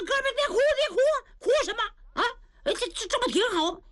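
high coaxing voice of a rough big brother; comforting. Acted. Niu Gao comforts crying Yang Yao.

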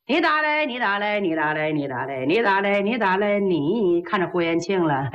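scared stammer. Acted. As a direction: lose your nerve as you repeat it. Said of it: "吓得舌头一转个儿". (吓得越说越低的结巴)

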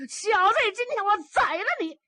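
put-on an old man exploding at his son; furious father. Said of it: "这叫怒发冲冠". (暴怒的老父亲高声怒吼)

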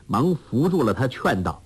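usual speaking voice

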